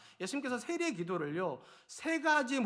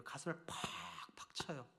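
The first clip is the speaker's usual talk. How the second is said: slow, breathy whisper; hushed whisper; 6 semitones lower, 11 dB quieter, slower than usual. Real, not acted. Pastor hushing the room as the tax collector beats his chest, whispered. Describing breast-beating, hushed.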